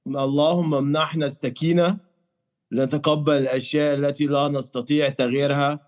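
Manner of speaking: prayer recitation. Real, not acted. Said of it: "I wanna hear your Arabic prayers".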